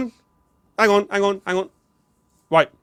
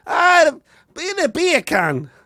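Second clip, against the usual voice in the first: high, drawn-out mock Jamaican accent; hammed-up Jamaican exclamation; 12 semitones higher, 4 dB louder, much slower than usual. Shown as a demonstration. Showing co-host the out-loud trick, Jamaican accent. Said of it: "which is Jamaican, isn't it?".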